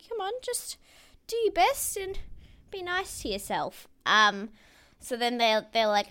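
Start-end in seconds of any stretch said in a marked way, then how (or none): 0.1-3.9 imitated gentle encouragement. Imitating gentle pep talk.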